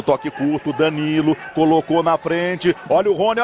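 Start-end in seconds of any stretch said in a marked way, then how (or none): 2.9-3.4 olha o Rony called quickly, mid pitch; excited call. Real, not acted. First call, lower.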